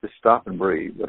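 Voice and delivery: slow and low, retold reassurance; calming a grandson. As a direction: tell an excited child to settle, slowly. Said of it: "I tell my grandson when he gets excited".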